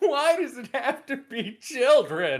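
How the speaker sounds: sobbing, loud, high-pitched crying wail through tears. Acting out a better version of a scene: mock crying. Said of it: "then she's crying, like".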